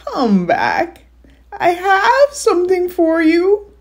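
high, loud, slow coaxing creature; troll voice. Acted. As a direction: lure them back like a sly troll. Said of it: "Your troll voice is on point".

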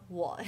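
我 in a low dipping third tone. Shown as a demonstration. Listing the third-tone words for learners, 我 in third tone. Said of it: "is also third tone".

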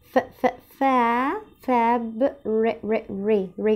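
فابريك broken up as ف، فا، فاب، ري, with a strong kasra on ري; syllable by syllable. Shown as a demonstration. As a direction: break فابريك into its sounds and lean on the ري. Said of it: "كسرت قوي". (تقطيع فابريك مع كسرة قوية على ري)

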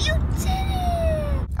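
high, slow, teary praise; proud squeal. Real, not acted. Owner praising her new puppy for grabbing the toy, high proud squeal. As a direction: cheer the puppy on like a proud parent.

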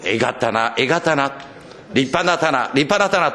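quoting hometown folks in a light Akita dialect, ending in a laugh. Retold or imitated. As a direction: say it like the old folks back in Akita, fond and amused. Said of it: "秋田弁で言うと". (秋田弁で、笑いまじりに懐かしく)

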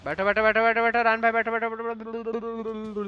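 urgent shout. Real, not acted. Urgent instruction during fight.

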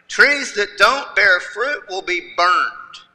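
slow, firm, direct warning. Retold or imitated. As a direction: lay down the warning plainly and slowly. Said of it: "take a direct tone".

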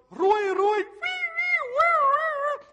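high, loud wailing alarm noise; loud mock siren; imitated siren. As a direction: wail like an alarm, rising very high. Imitates alarm from bank account.

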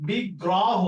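বিগ্রহ said as big-raw-ho; open final syllables. Shown as a demonstration. Teacher testing a candidate pronunciation, open vowel. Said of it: "এটা আমরা বলতেছি কি".

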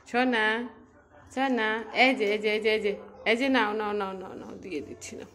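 high, loud sing-song coaxing to a pet; coaxing pet talk. Real, not acted. Owner coaxing her pet Koko to let go, high sing-song pet talk. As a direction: coax the dog to let go, high and loud, then soften at the end.

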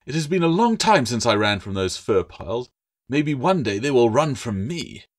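lightly voiced proud little lizard; boastful gecko. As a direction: brag like a small creature puffed up.

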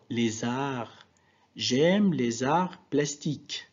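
Z linking "les arts"; liaison. Shown as a demonstration. Teacher confirming the exercise answer, Z linked in "les arts". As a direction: join "les arts" with a Z, as one word. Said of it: "où est-ce qu'elle est".

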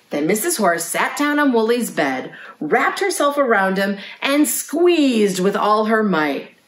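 lively picture-book narration; reading to children. A narrator's reading. Librarian reads a lamb's bedtime story to children, storytelling. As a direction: read a bedtime story to little listeners.

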